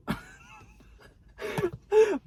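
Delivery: very high, loud squealing laugh; loud cackle at your own joke; real cackle. Real, not acted. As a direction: burst out in high helpless laughter. Cracks up after calling it crap.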